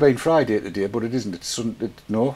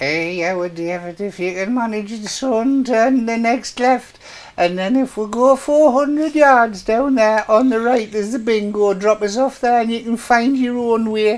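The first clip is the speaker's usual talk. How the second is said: put-on grandma sat nav voice, higher and louder; 11 semitones higher, 4 dB louder than usual. Reading a chat idea aloud, doing a sat nav in a grandma voice. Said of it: "a grandma voice in sat nav".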